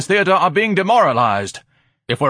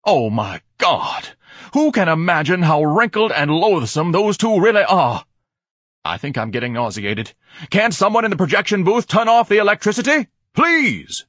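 loud, high-pitched horrified ranting; outraged spluttering; 9 semitones higher, 6 dB louder than usual. A narrator's reading. Ignatius begs the projection booth to stop the film, loudly outraged. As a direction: draw out the horror, then climb to a pleading shout. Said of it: "he spluttered".

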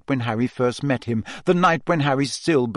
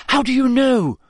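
high, loud challenge shot back; indignant, raised-pitch comeback; sharp retort; 12 semitones higher, 5 dB louder than usual. A narrator's reading. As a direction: fire the question straight back. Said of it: "Hermione shot back".

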